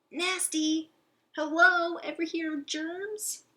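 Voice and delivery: high, loud grossed-out outburst; squeaky sarcastic disgust. Acted. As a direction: recoil from the kiss. Hamster disgusted by kiss.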